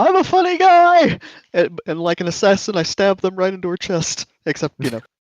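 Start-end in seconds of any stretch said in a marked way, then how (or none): 0.0-1.2 loud, very high, drawn-out yell. Voicing a character hurtling over tables with a yell: yelling in character.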